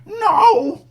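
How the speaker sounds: very high, loud cat-like No. Retold or imitated. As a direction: yowl it like a startled cat. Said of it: "He clearly says".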